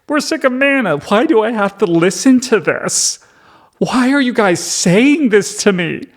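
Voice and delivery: very high, hammed-up exasperated whine; comically dramatic whining. Moses and the people complain about manna, comically whiny. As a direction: pitch it way up in mock outrage. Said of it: "this is comedically dramatic".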